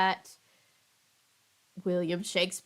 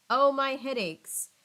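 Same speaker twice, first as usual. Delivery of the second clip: a hammed-up ache in each word; a touch of theatrical suffering; mild mock moan; 5 semitones higher, 5 dB louder, slower than usual. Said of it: "the nurse moaned".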